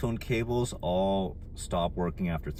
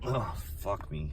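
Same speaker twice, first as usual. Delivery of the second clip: soft pained curse from elbow pain; hit my funny bone; 4 dB quieter than usual. Real, not acted. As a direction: groan it out through the pain. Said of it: "my right hand is paralyzed".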